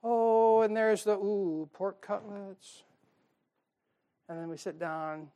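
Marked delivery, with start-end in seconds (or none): 0.0-2.8 savoring. Retold or imitated. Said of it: "I'm going over".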